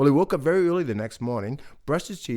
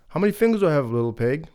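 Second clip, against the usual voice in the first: wolf voice; 4 semitones higher, 3 dB louder, faster than usual. Acted. Wolf asks playfully.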